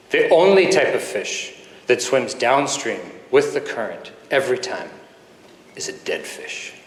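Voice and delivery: intimidating foreign father. Retold or imitated. Imposing father lecturing his little boy, lightly imitated gravity. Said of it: "this very strong foreign accent".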